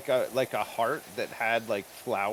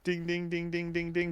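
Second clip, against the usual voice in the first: bell imitation; 6 semitones higher than usual. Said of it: "it was just bells".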